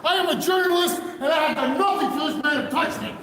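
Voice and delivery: furious shouting. Real, not acted. Journalist shouting at officers while being arrested, furious. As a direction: rage at them while being held.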